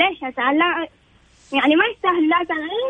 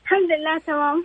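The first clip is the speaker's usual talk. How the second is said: phone held away; faster than usual. Real, not acted. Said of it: "قربي بس الجوال منك عشان ايش صوتك يكون واضح".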